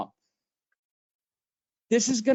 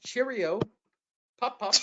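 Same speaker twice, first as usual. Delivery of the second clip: hammed-up English accent, pitched up; playful put-on British; mock British; 5 semitones higher than usual. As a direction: silly fake Brit sign-off. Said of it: "let's try this again".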